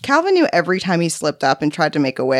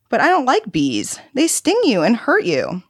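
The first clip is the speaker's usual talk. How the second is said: put-on high-pitched child's protest; reluctant little boy; 7 semitones higher than usual. A narrator's reading. Boy telling visitor he dislikes bees, reluctant. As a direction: whine it lightly like a wary kid.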